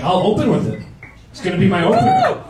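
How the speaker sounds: playing along with the kid, pitch jumping way up; mock excited promise. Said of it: "I was like".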